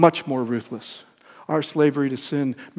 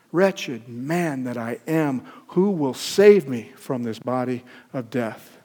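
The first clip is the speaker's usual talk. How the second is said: Paul's cry; slower than usual. Acted. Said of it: "When Paul made the same cry".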